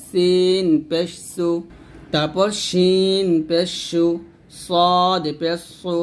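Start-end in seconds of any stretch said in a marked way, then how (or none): 4.6-5.9 "সদ পেশ সু" with a thick, emphatic Arabic s; thick, heavy s. Shown as a demonstration. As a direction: slowly, make "সু" heavy and full. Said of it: "মোটা করে". ("সু" মোটা করে উচ্চারণ)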